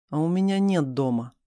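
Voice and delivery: usual speaking voice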